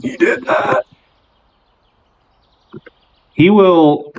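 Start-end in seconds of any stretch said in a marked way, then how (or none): 0.0-0.8 tiny, very high creature voice; awed Nugget. Acted. Nugget watching his father's feat, high-pitched awe. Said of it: "but to Nugget".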